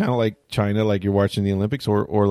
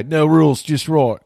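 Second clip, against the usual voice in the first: hammed-up Australian accent, higher and louder; Outback ad accent; 7 semitones higher, 6 dB louder than usual. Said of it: "unless you do the Outback guy".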